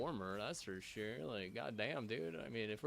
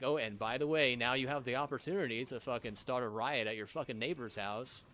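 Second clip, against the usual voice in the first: louder, sing-song mock offer; loud mock sales pitch; mocking gaslighter; 5 dB louder than usual. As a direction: sneer it like a fake friendly pitch. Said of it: "they'll fucking gaslight me at some point, like".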